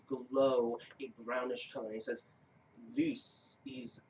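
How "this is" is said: much higher, abandoned take of the giant; squeaky false start as the rune giant; wrong voice. Acted. Giant to player, botched first try at the voice. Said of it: "that's not the voice".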